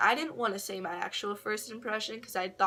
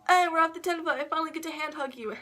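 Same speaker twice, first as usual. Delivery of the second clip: mock-excited, higher and louder quote; excited announcement; 8 semitones higher, 5 dB louder, faster than usual. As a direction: imitate someone calling out happily, pitched up. Retells his happy hug announcement.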